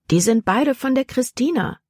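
höher und lauter, aufgeregt rufen; aufgeregter Ausruf. Acted. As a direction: aufgeregt hinausrufen. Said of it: "rief Libby aus". (Libby warnt Jordan, aufgeregt rufend)

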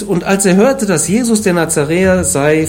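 ordinary talk

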